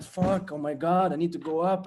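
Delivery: sudden late-morning panic; mock panic. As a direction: jolt awake in a panic, realising it's late.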